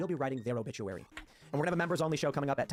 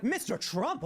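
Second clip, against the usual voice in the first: excited fan call; 7 semitones higher, much slower than usual. Retold or imitated. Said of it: "people being like".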